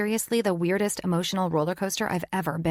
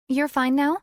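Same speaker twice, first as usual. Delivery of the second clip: put-on doubting teen question, higher; skeptical; 8 semitones higher, 5 dB louder than usual. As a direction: ask it unconvinced. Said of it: "she asks skeptically".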